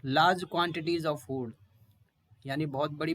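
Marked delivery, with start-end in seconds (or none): 0.1-1.5 reading Eating or wanting large quantities of food very slowly; slow, deliberate classroom reading; slow dictation. Shown as a demonstration. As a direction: dictate the definition word by word. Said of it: "इसका क्या मतलब है?".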